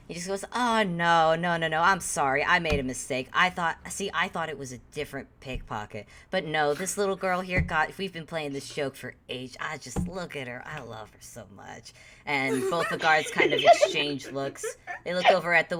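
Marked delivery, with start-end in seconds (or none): 0.5-11.9 doting apology. Acted. Charmed man excuses Ruby to guards, dotingly.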